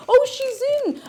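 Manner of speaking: imitating housemate. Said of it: "housemate at the time was like".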